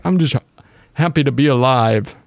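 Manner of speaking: put-on goofy creature voice, a bit odd in timbre; funny dino voice. Gamer voices his tamed dino, lightly silly creature voice. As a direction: voice the dino as a simple, content critter. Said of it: "You have a funny voice".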